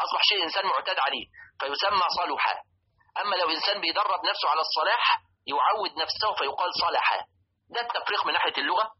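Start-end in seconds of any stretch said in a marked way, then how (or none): 2.2-2.6 صلحا with a "u" after the lam; rounded middle vowel in صلحا, sa-lu-ha; damma on lam. Shown as a demonstration. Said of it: "بفتح اللام وضمها". 6.9-7.2 صلحا with an "a" after the lam; fatha on lam. Shown as a demonstration. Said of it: "بفتح اللام وضمها".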